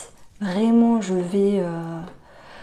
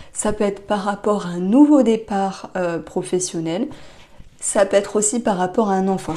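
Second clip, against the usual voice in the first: hiccuping. Real, not acted. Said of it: "j'ai le hoquet".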